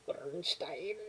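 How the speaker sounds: unvoiced whispered Bernstein. Shown as a demonstration. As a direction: breathe Bernstein out as a hushed afterthought. Repeats composer's name.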